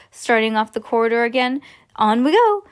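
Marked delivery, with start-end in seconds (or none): 2.0-2.6 eager. A narrator's reading. Wonka urges group onward.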